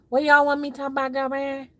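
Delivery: sassy diva read; sassy girlfriend voice. Pretend. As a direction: camp it up for the chat. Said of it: "repeats same line marked".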